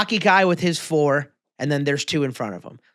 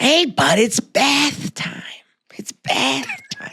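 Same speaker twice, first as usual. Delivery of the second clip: mock taunt; 8 semitones higher, slower than usual. Punchline of lake throw.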